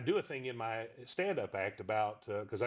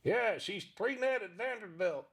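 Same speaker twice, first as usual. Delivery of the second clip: Pops puppet voice; 9 semitones higher, slower than usual. Acted. Pops answers in dialogue.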